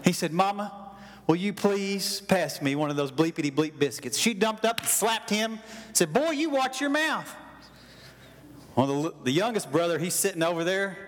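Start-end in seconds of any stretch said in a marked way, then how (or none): 0.3-4.2 lower, politely falling request; mock-polite boy asking for biscuits; asking nicely. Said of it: "he didn't ask nicely". 6.1-7.3 hammed-up mother's rebuke; stern mother scolding. Mama slaps second son.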